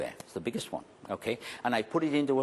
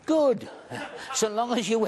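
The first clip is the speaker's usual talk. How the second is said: high, loud mock-gleeful bark; a sudden loud high burst of glee; comic shout; 11 semitones higher, 4 dB louder than usual. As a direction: punch the joke loudly. Comic punch about family suffering.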